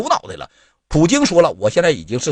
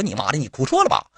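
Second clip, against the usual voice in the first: mock Armenian official scolding; 8 semitones higher than usual. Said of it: "当时亚美尼亚亚长说".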